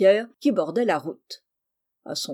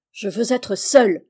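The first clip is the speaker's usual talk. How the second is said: louder, insistent outcry; crying out; 7 dB louder than usual. A narrator's reading. Injured mistress repelling her servant's care, crying out. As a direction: cry it out as an order. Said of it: "criait-elle".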